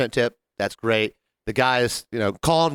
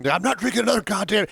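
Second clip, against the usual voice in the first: quoting the movie; 7 semitones higher than usual. Retold or imitated. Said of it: "You haven't seen Sideways".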